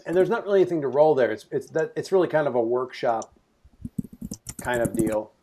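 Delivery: talking while chewing crackers; mouth full. Real, not acted. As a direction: speak around a mouthful. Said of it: "I'm sorry if I'm crunching animal crackers".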